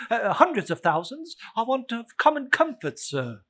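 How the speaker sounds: giggling through the line; laughing gentleman. Acted. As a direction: laugh off the stumble.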